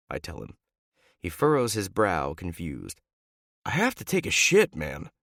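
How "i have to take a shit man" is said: whiny teammate voice. Acted. Teammate complaining.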